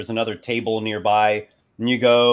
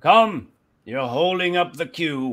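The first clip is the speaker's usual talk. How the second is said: put-on higher-pitched, scolding old official; old elf clerk; 8 semitones higher, 7 dB louder than usual. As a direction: chide the people holding up the line. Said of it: "he's an old one".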